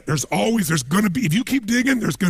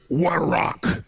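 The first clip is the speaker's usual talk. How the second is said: impressed; much slower than usual. Shown as a demonstration.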